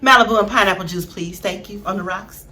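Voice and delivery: low, cool, dismissive; sassy refusal. Pretend. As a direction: brush him off, fading to a murmur. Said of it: "I would have been the one to mess his head up".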